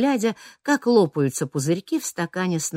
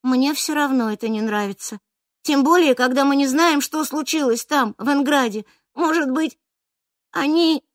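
put-on girl's voice, lightly raised, uneasy; worried girl; 9 semitones higher, 4 dB louder than usual. A narrator's reading. Чижик говорит друзьям, что ей тревожно, worried girl.

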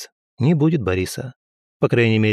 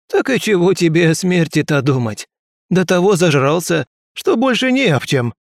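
mocking drunk man; 7 semitones higher, 4 dB louder than usual. Man mocks Boris, amused.

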